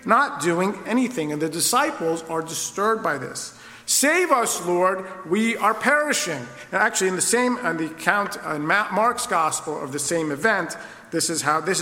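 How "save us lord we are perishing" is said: high, frightened cry for help; panicked plea. Pretend. Disciples in the storm beg Jesus, panicked. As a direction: shout for rescue over the storm.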